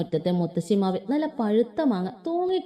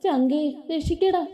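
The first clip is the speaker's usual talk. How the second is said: raised, higher panicky yell for help; calling out for help; 5 semitones higher, slower than usual. Acted. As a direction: call down from the tree for rescue. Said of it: "കൊച്ചു കിടന്ന് കാറി കൂവാണ്". (ഉറക്കെ വിളിച്ചു കൂവുന്നു)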